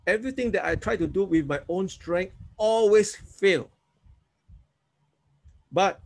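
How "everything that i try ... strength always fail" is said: guided prayer. Shown as a demonstration. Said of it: "Say with me, yeah?".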